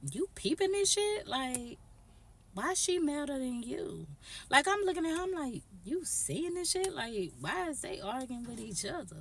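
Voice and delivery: high-pitched silent aside voiced aloud; mock disbelief. Teller voices their thought to Glasses about the argument, high mock disbelief. Acted incredulous thought to friend.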